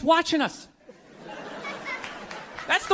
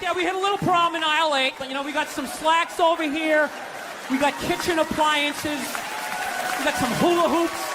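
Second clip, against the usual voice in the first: mock salesman. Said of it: "play it off like".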